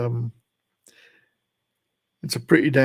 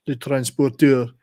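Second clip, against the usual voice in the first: put-on slow Le Transporteur in a proper French accent; 4 dB louder than usual. Correcting himself for his viewers, the title in a proper French accent. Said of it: "proper French, like".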